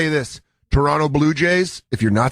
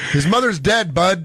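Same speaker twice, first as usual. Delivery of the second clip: polite Canadian heckle; 3 semitones higher than usual. Retold or imitated. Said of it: "No, not even mom. His mother".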